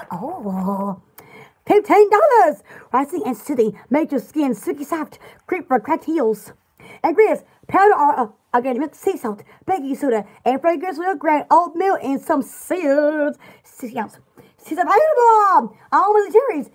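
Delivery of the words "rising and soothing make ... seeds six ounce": gentle, soothing announcer read of the product list. Pretend. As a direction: read it like a lulling radio ad. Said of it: "I should be a radio announcer. The way I do my voice".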